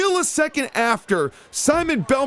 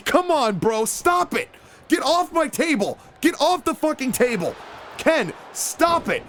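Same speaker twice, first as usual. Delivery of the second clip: yelling at wrestler; 2 semitones higher than usual. Real, not acted. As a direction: order him off the table.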